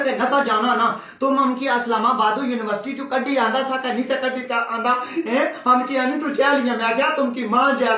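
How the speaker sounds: complaining maid. Acted. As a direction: scold them in a thick rural dialect. Maid threatens the family with jail.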